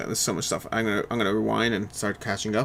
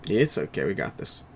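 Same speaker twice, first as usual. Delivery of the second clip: reassuring; 4 semitones lower, 4 dB quieter, slower than usual. Real, not acted. Reassures worried teammate about the game.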